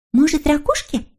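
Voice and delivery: high little creature voice; Snork Maiden. Acted. Little creature proposing shells for Hemulen, high voice. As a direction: suggest it in a high, piping voice.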